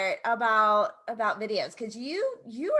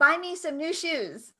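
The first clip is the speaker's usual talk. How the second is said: laughing command; 5 semitones higher than usual. Pretend. Commanding a voice assistant.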